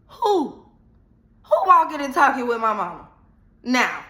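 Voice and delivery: shocked who. Retold or imitated. Shocked hearing girl is with mom.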